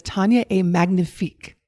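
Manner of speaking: lightly put-on French accent, by her own account horrible; self-mocking French accent. Shown as a demonstration. Reading a listener's French praise aloud in a bad French accent. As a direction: have a go at the French, French accent and all. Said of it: "My French accent, by the way, is horrible".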